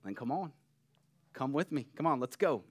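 gentle, easy invitation with a smile; smiling invitation. Acted. Jesus inviting Peter out of the boat, smiling and gentle. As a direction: coax softly, smiling. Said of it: "with a smile".

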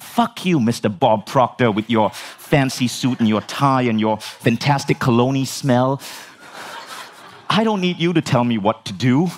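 mock-indignant telling-off of a mentor; angry. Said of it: "now I'm fucking angry".

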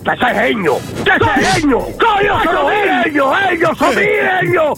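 emphatic italian speech. Real, not acted. Angry prank-call victim yelling.

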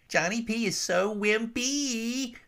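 high, slow schoolboy taunt; gleeful shriek. A narrator's reading. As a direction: shriek it like a mean kid. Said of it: "the lead tormentor shrieked with delight".

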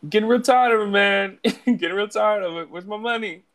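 high, loud cartoon tough guy; hammed-up high-pitched shakedown; mock angry threat. Acting Stewie beating Brian up.

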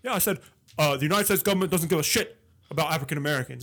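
mock Bernie rant. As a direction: rattle it off like an old firebrand. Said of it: "He's like".

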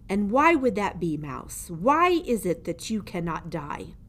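put-on menacing old jailer. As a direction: lean over the prisoner and gloat. Gregory questions.

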